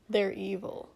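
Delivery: flat. A narrator's reading. Hungover prince judging his hosts, flat. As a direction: state it flatly, no lift. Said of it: "he said flatly".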